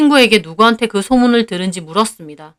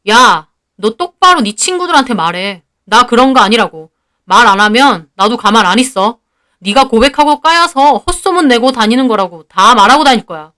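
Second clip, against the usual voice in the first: firm, mildly raised warning; acted indignation, emphatic; angry threat; 3 dB louder than usual. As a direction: lay down an ultimatum to a classmate. Boy threatens rumour-spreader in acted quarrel.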